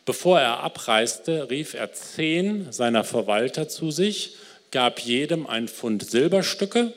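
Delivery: ruhiges, getragenes Vorlesen eines Gleichnisses; erzähl die Geschichte langsam und feierlich; Bibellesung. Acted. Liest das Gleichnis vor. (Prediger liest der Gemeinde das Gleichnis vor, getragen)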